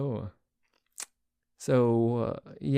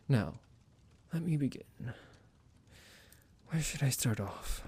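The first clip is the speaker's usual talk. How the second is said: psychotic vampire; 2 semitones lower than usual. Acted. Psychotic vampire roleplay audio.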